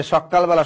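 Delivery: সকালবেলা with a held k; pressed kk inside সকালবেলা; doubled consonant. Retold or imitated. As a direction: say সকালবেলা as sok-kal-bela. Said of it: "এই উচ্চারণগুলো করে".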